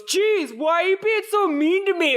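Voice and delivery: high-pitched mock whine of a rejected suitor; put-out nice guy. Rejected nice guy answering the girl, high mock protest. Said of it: "He goes".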